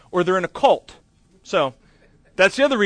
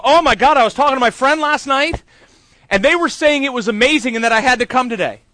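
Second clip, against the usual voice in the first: higher, louder breathless gushing; gushing fan; 7 semitones higher, 6 dB louder than usual. Retold or imitated. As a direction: gush like an amazed churchgoer. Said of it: "people come up to me and go".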